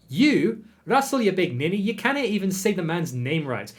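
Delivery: high, scolding retort; indignant outburst. Acted. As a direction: snap back at Russell. Guest arrives indignant.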